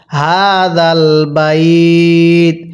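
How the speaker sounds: very slow, drawn-out melodic recitation; slow chanted tajweed reading; Quran recitation. Shown as a demonstration. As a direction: recite each syllable long and sung. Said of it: "আমার সাথে পড়ুন".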